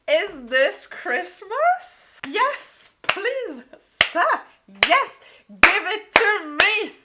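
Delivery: loud, high, begging squeals of delight; thrilled squeal. Real, not acted. Fan begging the book for a best friends to enemies plot, squealing. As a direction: beg for the plot like a gift.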